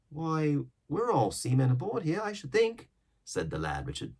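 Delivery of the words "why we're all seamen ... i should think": put-on young sailor. A narrator's reading.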